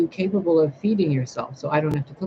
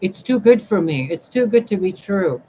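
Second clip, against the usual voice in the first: mocking quote; 5 semitones higher, 4 dB louder than usual. Mocking people who reject partners.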